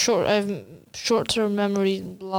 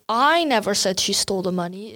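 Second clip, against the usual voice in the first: "I" lifted and hit; first word "I" punched; stress on I. Shown as a demonstration. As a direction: make "I" carry the weight. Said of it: "it's not you who told".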